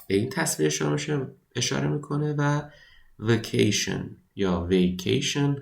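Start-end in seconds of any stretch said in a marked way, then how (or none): 3.2-5.6 vacation said first as "وکیشن" with a short a, then as "ویکیشن" with an ay sound; two pronunciations. Shown as a demonstration. Teacher tells students both ways of saying "ویکیشن" are right. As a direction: give both "وکیشن" and "ویکیشن", one after the other. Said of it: "هر دو تلفظ درست".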